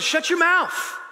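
high-pitched mock yell of a trainer; imitated scolding. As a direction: bark it like a scary trainer cutting someone off. Scary trainer scolds him.

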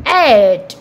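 "at" said as a long "ate"; word ending demo. Shown as a demonstration. Teacher showing what A T E will produce, drawn-out demo. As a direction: stretch "at" into a held "ate" sound. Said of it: "It will produce sound".

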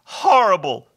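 high, loud creature voice; hammed-up creature lament; wailing hobgoblin. A narrator's reading. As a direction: echo it as a mournful wail. Hobgoblin echoes Bob.

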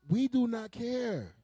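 high, slow, drawn-out declaration; emphatic indifference. Acted. Parent telling sulking kids he doesn't care, emphatic and slow. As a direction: hammer it out word by word.

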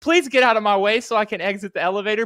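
a polite little machine asking to pass; robot voice. Retold or imitated. Imitating the stuck robot, high and chirpy. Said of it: "And then it goes".

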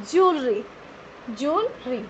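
JEWELRY said as two beats, "jool-ree"; correct pronunciation. Shown as a demonstration. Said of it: "but pronounce correctly". (Jewelry को "जूल-री" बोलें)

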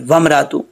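वमरातु run together without a catch. Shown as a demonstration. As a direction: show the hamza dropped in वमरातु. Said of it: "नहीं पढ़ेंगे". (हमज़ा के बिना वमरातु)

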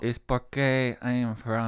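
lightly put-on Mexican accent; mock Mexican accent. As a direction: imitate Spanish-accented English. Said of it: "making fun of the Mexicans".

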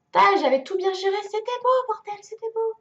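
high, fast wail of dismay; dismayed lament. Real, not acted. Player mourning her well-managed run, wailing.

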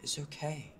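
insistent. Acted. Cutting off someone helping.

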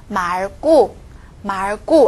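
말 고 said as 말꾸, l kept and tense kk; doubled consonant. Shown as a demonstration. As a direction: hold the l, then hit a tense 고 in 말 고. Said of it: "这个也要变成쌍기역". (말 고的고变成双音꼬)

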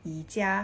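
"อีจ้า" said as Mandarin yi-jia; "อีจ้า" in Chinese tones; Mandarin reading. Shown as a demonstration. Teacher giving the Chinese name for IKEA, Mandarin tones. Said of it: "อันนี้อ่านว่า".

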